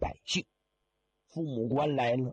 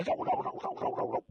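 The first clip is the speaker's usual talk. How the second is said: frantic fleeing noise; faster than usual. Acted. Mourner flees in terror.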